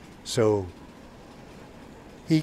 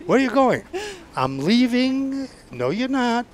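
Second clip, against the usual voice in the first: MP command; 11 semitones higher, 5 dB louder than usual. Retold or imitated. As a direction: order him down like an MP. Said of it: "Soldier, stand down".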